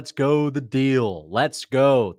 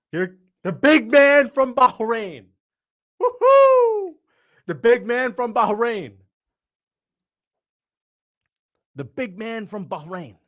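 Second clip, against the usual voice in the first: slow, drawn-out announcer call, much higher; announcer intro; 9 semitones higher, 4 dB louder, slower than usual. Retold or imitated. Imitating the announcer who introduced the big man from Bahrain. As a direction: boom out the ring intro like the announcer. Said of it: "I love how they introduced him".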